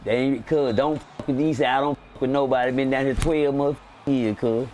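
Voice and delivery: lightly imitated low voice of a friend; slightly deepen it, the seasoned inmate advising; Drico. Old friend warning a newcomer off others, lightly imitated low voice. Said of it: "I gotta do my Drico voice".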